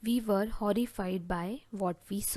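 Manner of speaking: very slow and deliberate, word by word; slow dictation. Shown as a demonstration. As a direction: dictate the phrase slowly to the class. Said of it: "जिसे आप English में बोलेंगे".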